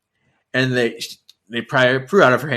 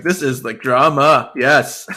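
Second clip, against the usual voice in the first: laughing delight; 5 dB louder, slower than usual. Retold or imitated. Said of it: "I'm like".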